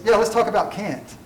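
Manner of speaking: quoting the professor, Kant rhymes with "ant"; Kant as "can't". Retold or imitated. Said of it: "That's how British people say it".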